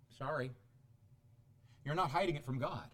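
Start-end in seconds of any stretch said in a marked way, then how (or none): 0.1-0.5 low, soft deadpan; quiet rebuttal. Real, not acted. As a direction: puncture the boast softly. Preacher deflates the parent's boast.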